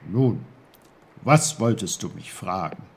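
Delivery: emphatic character question; Onkel Pfefferkorn. A narrator's reading. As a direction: ask briskly as the little uncle. Uncle asks Peter.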